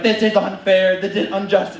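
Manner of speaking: imitating an upset little brother; mock crying protest. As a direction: protest an injustice, lightly hammed-up. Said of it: "Crying, screaming".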